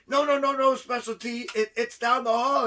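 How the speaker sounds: high, urgent protest; mild alarm. Retold or imitated. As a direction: stop him before it's too late. Urgently stops man peeing on wall.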